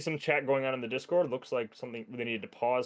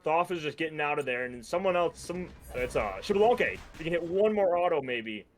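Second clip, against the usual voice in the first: higher-pitched, keyed-up match commentary; live esports play-by-play; 4 semitones higher than usual. Real, not acted. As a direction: call the fight as it unfolds.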